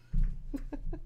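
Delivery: a soft unvoiced laugh of disbelief; breathy exasperated laugh. Real, not acted. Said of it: "I can't contain myself".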